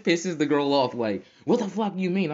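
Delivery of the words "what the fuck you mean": 1 mock indignant friend. Angry friend retorts.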